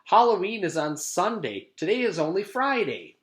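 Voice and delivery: high, loud smug correction; girl smugly correcting a classmate, high and loud; know-it-all. Acted. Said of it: "said Jenny".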